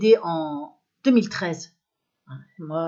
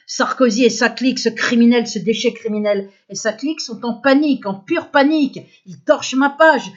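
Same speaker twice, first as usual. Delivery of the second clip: real outrage, loud and pitched up; angry accusation; 3 semitones higher, 8 dB louder than usual. Real, not acted. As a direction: denounce them at full voice. Accuse ceux qui l'isolent. (accusation indignée, voix forte et plus aiguë)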